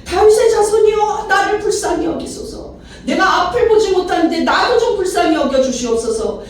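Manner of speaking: high, pleading outcry. Acted. Blind man calling Jesus over the crowd, high insistent cry. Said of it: "더 크게 소리 질러서".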